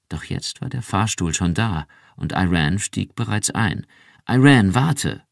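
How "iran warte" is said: laut und höher gerufen; rufen. Acted. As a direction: sie eilig zurückhalten. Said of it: "rief er". (Rick ruft Iran am Fahrstuhl laut nach)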